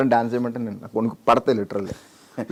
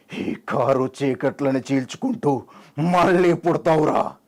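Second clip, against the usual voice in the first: held-back declamation starting to rise; film-star impression. Mimic promises Bhairava a rebirth, restrained film-hero declamation. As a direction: begin at normal pitch, lift toward the vow. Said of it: "శ్రీగారు".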